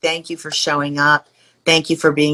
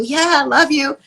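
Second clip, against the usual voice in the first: offhand; 9 semitones higher than usual. Retold or imitated. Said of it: "it sounded a little bit like "love ya".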